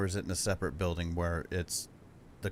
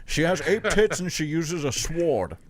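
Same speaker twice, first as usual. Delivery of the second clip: much higher and louder, words squeezed out through laughter; can't hold it together telling her stats; laughing; 9 semitones higher, 13 dB louder, slower than usual. Real, not acted. Cracks up describing Anne.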